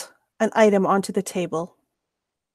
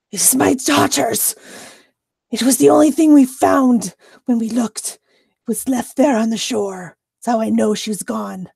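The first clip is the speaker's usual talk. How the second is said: acted anguish, raised at first then subsiding; distraught mother; 2 semitones higher than usual. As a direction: plead over your lost daughter, easing off at the end. Distraught mother explains her daughter's statuette.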